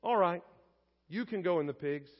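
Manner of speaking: understated, offhand permission; shrugging assent. Acted. Jesus granting the demons their request, mild shrugging assent. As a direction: agree as if with a shrug. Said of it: "Jesus' nod and shrug".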